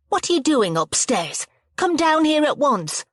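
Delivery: stern telling-off. A narrator's reading. Hostess catches kids upstairs.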